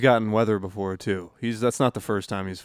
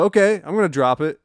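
nervous compliance; 7 semitones higher, 8 dB louder than usual. Acted. Player answers guns drawn.

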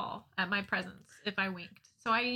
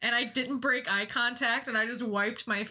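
usual speaking voice

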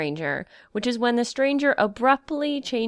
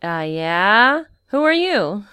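a hint of a wary young guard, raised voice; lightly acted Coast Guard man; 6 dB louder, slower than usual. Young guard questions the stranger on the beach, lightly acted and wary. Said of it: "will recreate that conversation right now".

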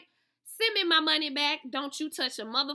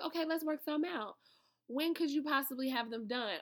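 fake calm; 4 dB quieter than usual. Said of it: "I was so cool, calm, and collective".

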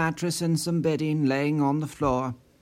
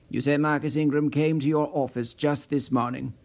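falling tune, flat statement; a firm, level statement; statement, not question. A narrator's reading. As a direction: say it as fact, no questioning lift. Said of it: "more a statement than a question".

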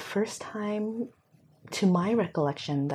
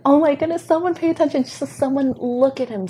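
high, loud pleading cry; urgent inner plea; 9 semitones higher, 8 dB louder than usual. Retold or imitated. Inner voice pleading for the lonely boy, high and urgent. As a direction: beg the room to notice him. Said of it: "internally going".

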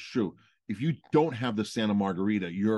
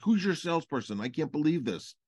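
higher mock-outraged demand; retold fury; 6 semitones higher than usual. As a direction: play the owner's indignant disbelief, not a real yell. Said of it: "she was furious".

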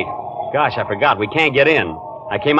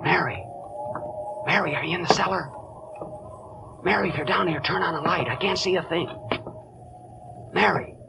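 hushed calling; 12 dB quieter than usual. Acted. Searching dark cellar calling softly.

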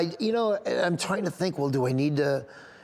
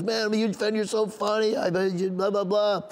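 high-pitched enthusiastic greeting; retold gushing fan; 5 semitones higher than usual. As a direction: imitate an excited fan heaping on praise.

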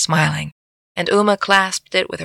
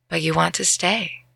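gently and softly, letting him go; 6 dB quieter than usual. Acted. Uma quietly accepting her friend's choice, soft. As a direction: say it quietly, like a kind release.

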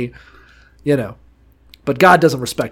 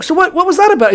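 imitated nosy questioning; 13 semitones higher, faster than usual. Acting officers quizzing their comrade.

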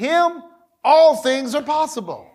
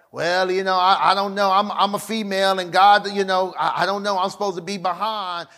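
lower, stammering unsure voice; hesitant mock excuse; 5 semitones lower than usual. Preacher imitating a woman doubting her calling, low and hesitant. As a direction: stumble through it lower and unsure.

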